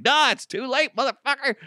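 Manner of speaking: high mock tough-guy retort; imitating Frank refusing the apology; menacing retort. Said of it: "Frank's just like".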